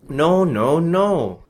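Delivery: angry shopkeeper shouting no. Acted. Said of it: "he shouts".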